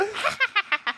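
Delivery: high demonstrated laugh; demonstrating own laugh. Shown as a demonstration. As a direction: show off your laugh on cue. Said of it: "Wait, my laugh is".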